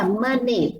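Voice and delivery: MONEY divided as mo-ni, one N; careful model of MONEY with N only on the second syllable; N starts second syllable. Shown as a demonstration. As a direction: open first syllable in MONEY, then ni. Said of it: "âm N đó nó thuộc âm tiết thứ hai là ni".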